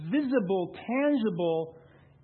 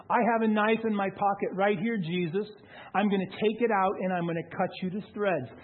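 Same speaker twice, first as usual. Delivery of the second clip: imitated threat; 3 semitones higher than usual. Retold knife threat from raging man.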